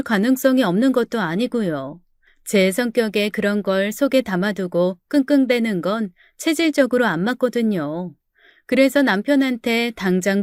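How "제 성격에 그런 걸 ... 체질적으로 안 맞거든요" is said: normal talking voice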